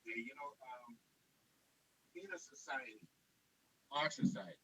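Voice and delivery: bad line, words dropping out; voice going in and out. Real, not acted. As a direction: voice breaking up on a weak connection. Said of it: "your voice is going in and out".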